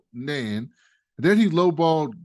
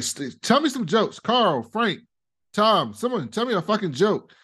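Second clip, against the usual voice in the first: lightly voiced demanding boss, higher; a hint of Logan barking orders; imitating Logan; 6 semitones higher than usual. Logan calling on Carl, Frank and Tom, lightly mocked. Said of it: "he's like".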